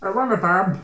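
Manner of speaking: high, mocking drunk whine; imitated whiny begging; mimicked whining. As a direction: tease him with a babyish plea.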